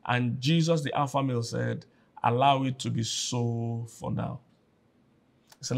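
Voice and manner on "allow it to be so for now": slow, unruffled answer; calm acted reply. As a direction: settle the protest with quiet authority. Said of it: "that guy just had a calmness about him".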